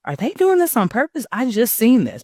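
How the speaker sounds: high-pitched incredulous self-quote; hammed-up baffled questioning; mock disbelief. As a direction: act out your puzzled reaction, voice jumping up high. Voices her past puzzled reaction.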